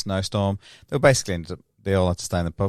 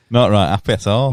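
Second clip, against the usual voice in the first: put-on Yorkshire accent; 7 dB louder than usual. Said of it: "your Yorkshire accent's".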